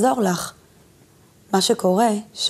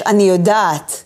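slow affirmation; 3 semitones lower, slower than usual. Shown as a demonstration. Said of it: "ונגיד ביחד שלוש פעמים".

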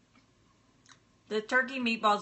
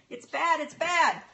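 higher and louder, hammed-up wail; mock lament; 7 semitones higher, 4 dB louder than usual. Real, not acted. To viewers about her bad connection, a mock wail. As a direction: overplay the complaint for laughs.

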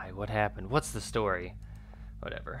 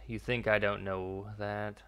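slow, mildly sarcastic retort; slower than usual. Acted. Officer retorts to the captain's warning, sarcastic. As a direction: drag it out with a touch of sarcasm. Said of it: "it was very sarcastic".

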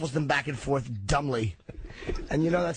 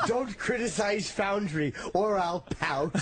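laughing slow rhyme; 4 semitones higher than usual. Pretend. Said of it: "I'm also a little teapot".

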